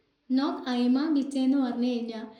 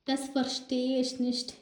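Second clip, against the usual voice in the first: slow demo; 4 dB quieter, much slower than usual. Shown as a demonstration. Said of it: "teacher demonstrating German phrase".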